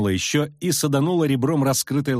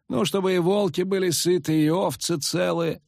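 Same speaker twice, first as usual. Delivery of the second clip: calm; 9 semitones higher than usual. A narrator's reading. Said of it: "спокойно продолжал цирюльник".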